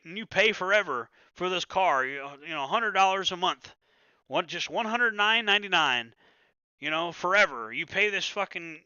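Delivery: mock sleazy dealer selling a car loan; lightly voiced GTA car salesman pitch; used car salesman. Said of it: "used car salesman off of, uh, Grand Theft Auto five".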